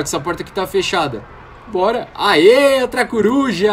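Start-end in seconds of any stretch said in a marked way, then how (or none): 1.7-3.7 loud, high excited cheer; cheering at a new find. Real, not acted. Excited find of another owl.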